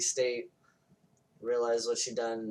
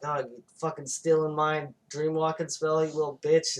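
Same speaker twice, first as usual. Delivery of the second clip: higher-pitched mock outrage; mock accusation; 4 semitones higher, 4 dB louder than usual. Witch accusing her rival in a film retelling, mock outrage. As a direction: hurl it as a retold taunt.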